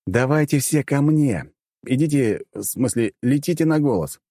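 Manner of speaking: commanding. A narrator's reading. Captain orders his floating crew to gather to his voice, commanding. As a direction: call the crew over to you. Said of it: "скомандовал я".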